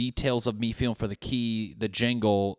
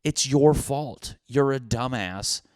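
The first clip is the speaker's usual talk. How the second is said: mock self-scolding; 4 semitones higher, 5 dB louder, slower than usual. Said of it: "I'm like".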